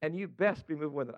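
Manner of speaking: lightly drawled Southern repeat; a hint of proper Southern belle; Southern belle accent. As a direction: retell it with a gentle Southern twang. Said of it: "That is exactly what God said to her".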